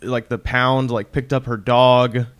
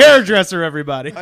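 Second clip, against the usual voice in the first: mock DJ announce; 3 semitones higher, 6 dB louder, faster than usual. Mock radio introduction.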